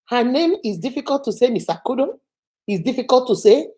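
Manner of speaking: level, measured questioning; cool, unhurried echo as a question; sceptical director imitated. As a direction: repeat the excuse back in disbelief. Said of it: "My director looked at her and said".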